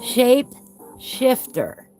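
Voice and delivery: careful retry, S's still whistling; slow it down, S's whistle. Real, not acted. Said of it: "I have trouble saying my S's".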